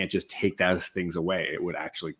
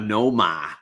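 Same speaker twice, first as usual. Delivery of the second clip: put-on Boston accent, r dropped; loud mock-Boston name call; 5 dB louder than usual. Shown as a demonstration. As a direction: show off a broad Boston "Noma". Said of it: "perfect for that Boston accent".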